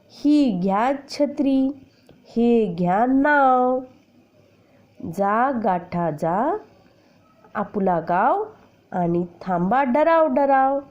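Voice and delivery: put-on slow, sing-song poem recital for children; poem recitation. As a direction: recite the rhyme slowly with a lilting beat. Teacher recites the poem first. (मुलांना कविता तालात, हळू म्हणून दाखवणे)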